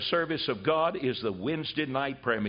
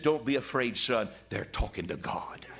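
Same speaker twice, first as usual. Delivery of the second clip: gentle father; 5 semitones lower than usual. Retold or imitated. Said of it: "He said".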